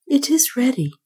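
a breathless unvoiced whisper. A narrator's reading. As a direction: breathe it without voice. Francisco answers before sacrifice.

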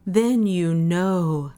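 sustained, reverent declaration; voice of revelation. A narrator's reading. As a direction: intone it slowly, as if struck by revelation. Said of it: "sang Parisi in the voice of revelation".

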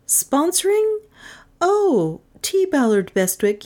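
high-pitched questioning heroine voice; high, improvising reply; caught-off-guard client. A narrator's reading. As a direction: start high, then settle into the answer.

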